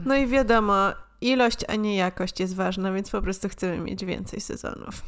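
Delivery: blocked nose from a cold; nasal cold voice. Real, not acted. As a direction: talk through a stuffy nose. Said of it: "jakby mówiła przez nos".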